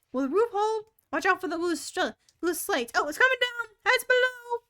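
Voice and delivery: loud, high, hurried animal chatter; excited crowd voices. Acted. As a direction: call out in a busy scramble. Many animals shouting at once.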